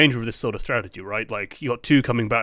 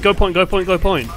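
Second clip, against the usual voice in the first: urgent shout of go point, repeated; called-out order; 5 semitones higher, 5 dB louder than usual. Retold or imitated. Teammate yelling the team onto the point, loud and urgent. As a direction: bark the call like a shotcaller over comms. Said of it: "I imagine someone called".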